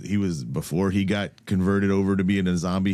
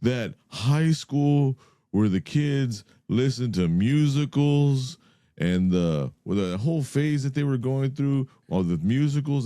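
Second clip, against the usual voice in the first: high, slow mock-puzzled voice; mocking Cobweb; 6 semitones higher than usual. Retelling Cobweb's question to friends, high and slow. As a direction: stretch it out like a confused pundit. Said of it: "He was like".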